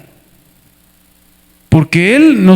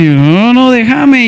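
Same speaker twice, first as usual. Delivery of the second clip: acting drunk; much slower than usual. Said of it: "yo me voy a comportar como borracho".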